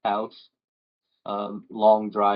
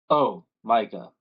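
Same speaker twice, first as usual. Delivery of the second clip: deep voice; 3 dB louder than usual. Acted. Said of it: "you hear a deep voice".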